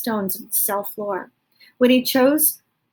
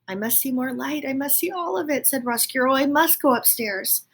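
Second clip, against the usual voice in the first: longing rat; 5 semitones higher than usual. Acted. Roscuro longing.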